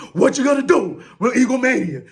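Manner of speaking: shouted announcer-style hype; wrestling promo. Pretend.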